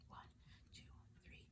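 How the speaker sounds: soft whispered counting; hushed counting aloud; whispering the count. Shown as a demonstration. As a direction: whisper the numbers to show the pattern. Teacher counts pattern in whisper.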